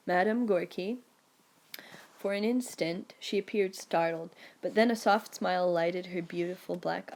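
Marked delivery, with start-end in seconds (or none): 0.1-1.0 a touch of charm on "Madame Gorky", rising; lightly charming address, "Madame Gorky" rising at the end; engaging tones. Retold or imitated. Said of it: "in my most engaging tones".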